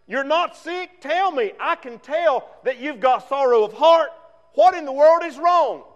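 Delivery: a king pressing his servant to speak; concerned king. Retold or imitated. King voiced in retold scene.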